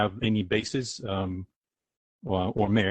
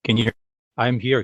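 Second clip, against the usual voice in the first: louder, speaking up on request; to someone hard of hearing; 3 semitones higher, 7 dB louder than usual. Real, not acted. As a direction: push the voice so they catch it. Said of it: "Could you speak up".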